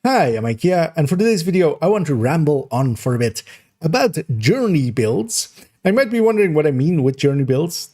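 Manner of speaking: upbeat YouTuber intro voice; bright, engaged channel opener; energetic intro. Shown as a demonstration.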